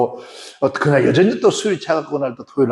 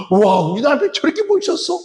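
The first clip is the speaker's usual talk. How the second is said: higher, delighted wonder; amazed delight; 10 semitones higher than usual. Retold or imitated. Wife seeing her groomed husband, amazed delight. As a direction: gasp in delight at him.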